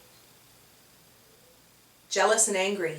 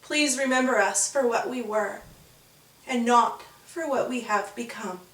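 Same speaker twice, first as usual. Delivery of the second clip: tearful plea. Acted. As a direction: ask to be remembered. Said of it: "they said".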